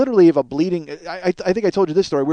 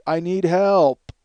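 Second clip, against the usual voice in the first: imitated pleading neighbor; 3 semitones higher, much slower than usual. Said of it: "this guy say".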